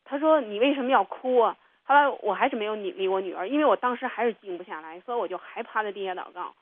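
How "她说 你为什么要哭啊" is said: put-on higher, louder child voice calling mommy; an anxious little girl tugging at her mother. Daughter calling to her crying mother, in a high, loud child voice.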